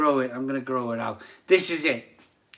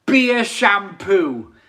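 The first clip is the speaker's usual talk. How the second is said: slow, high, loud announcement; slow punchline; 5 semitones higher, 5 dB louder, much slower than usual. Real, not acted. Host announcing his hair secret to viewers, slow and loud. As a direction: land the joke slowly.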